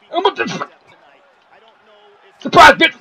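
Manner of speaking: high, loud squeaky taunting as the foot itself; spring it on them like a cartoon surprise; gleeful mock taunt. Voicing the kick as a character.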